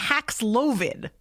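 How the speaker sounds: Paxlovid said very slowly, each syllable stretched; drawn-out name. Shown as a demonstration. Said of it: "Are they kidding me?".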